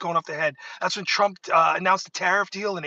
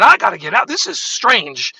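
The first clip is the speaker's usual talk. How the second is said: alarmed; 6 dB louder than usual. Retold or imitated. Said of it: "I said".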